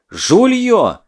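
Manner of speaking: loud, high, drawn-out yell; wailing yell. Acted. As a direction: howl it at the cheats. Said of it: "вопил Лёва".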